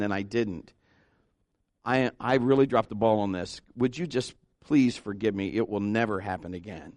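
low, softened, sincere apology; acted contrite plea for forgiveness; humble apology. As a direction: own the fault gently, voice sinking.

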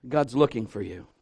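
ordinary talk

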